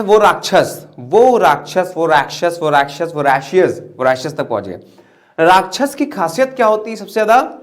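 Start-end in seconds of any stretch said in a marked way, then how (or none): 0.0-3.1 "वो राक्षस" repeated, starting stressed and gradually running together; sound-alike wordplay. Shown as a demonstration. Teacher showing students what voracious sounds like, sound-alike repetition. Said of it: "ऐसा sound कर रहा है". 3.1-3.7 "voracious" said to echo वो राक्षस; sound-alike pronunciation. Shown as a demonstration. Teacher turning the memory trick back into the word, sound-alike pronunciation. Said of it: "voracious ऐसा sound कर रहा है".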